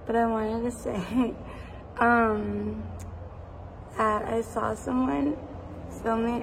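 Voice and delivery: frog in my throat; hoarse, frog in the throat voice. Real, not acted. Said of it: "I sound like there's a frog in my throat".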